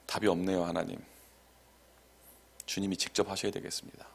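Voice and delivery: low, soft prayer, half to himself; resigned prayer. Retold or imitated. Preacher retells praying to God with no answer, quiet resigned prayer. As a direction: quietly hand it over to God.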